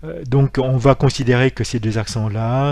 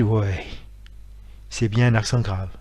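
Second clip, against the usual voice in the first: blasé, tired. Shown as a demonstration. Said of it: "d'une façon blasée, fatiguée".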